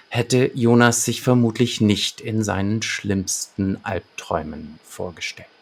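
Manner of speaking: measured synopsis read-out with deliberate pauses; story narration. A narrator's reading. Podcast host presents the detective's case to listeners, narrating. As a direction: read the case summary like an audio-drama narrator. Reads the episode synopsis aloud.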